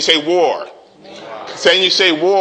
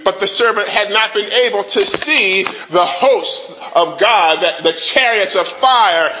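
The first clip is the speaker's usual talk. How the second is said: rising preaching; 3 semitones higher than usual. Acted. Preacher building to the congregation, fervent. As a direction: preach it with mounting fervor.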